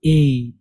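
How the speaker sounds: ए held long with a slight glide; letter name with imala. Shown as a demonstration. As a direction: draw ए out, tilted a little by imala. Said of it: "इमाला करके पढ़ते हैं".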